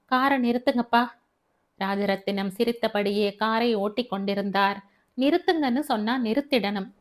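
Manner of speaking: lightly voiced young woman insisting; insistent daughter. Daughter demands her father stop the car, insistent.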